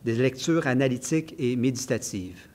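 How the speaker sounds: measured, evenly phrased author's reading; literary reading aloud. Acted. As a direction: read your essay aloud, phrase by phrase. Reads a passage from the book. (lecture littéraire posée à voix haute)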